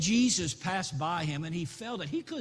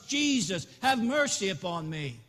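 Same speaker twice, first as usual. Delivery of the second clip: a loud, raised cry for mercy; a blind beggar shouting louder still to Jesus. Acted. Blind beggar shouts louder over the crowd to Jesus, raised cry. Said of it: "He cried out even louder".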